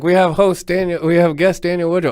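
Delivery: mock promo announcer. Guest imagines how the promo would be cut, mock announcer.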